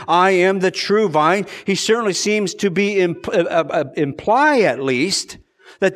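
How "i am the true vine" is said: slow, with true pressed and a rise at the end; stress on true. Shown as a demonstration. Preacher drawing out what true implies. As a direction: press on true to imply other vines. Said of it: "by saying".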